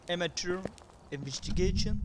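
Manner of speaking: put-on French speaker faking an English accent. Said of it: "j'ai un accent anglais qui méritera des clips".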